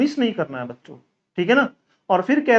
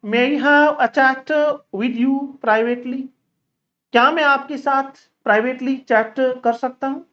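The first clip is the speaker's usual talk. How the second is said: steady, slow teaching drill; slow drill read; much slower than usual. Shown as a demonstration. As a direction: read each example slowly for the class. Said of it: "drill sentences for students". (धीमे-धीमे अभ्यास वाक्य)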